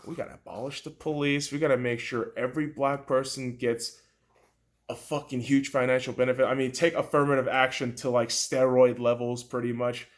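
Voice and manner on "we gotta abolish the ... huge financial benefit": mocking activist voice. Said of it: "hear some of these fucking B L M people talking".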